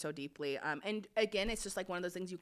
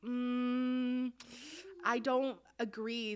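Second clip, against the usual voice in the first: measured dad; 7 semitones higher, much slower than usual. Retold or imitated. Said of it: "he just was like".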